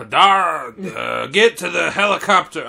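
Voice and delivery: Schwarzenegger impression. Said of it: "do an Arnold Schwarzenegger impression".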